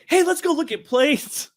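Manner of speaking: put-on coaxing a friend's girlfriend to come look at planes, slow and high sing-song; sing-song lure. Friend luring my future wife away in a high, slow sing-song. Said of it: "runs away with her going".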